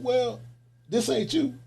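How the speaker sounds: high mock voice of a disappointed woman; lightly mocking her high reply; imitating the lady. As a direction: pitch it way up like her.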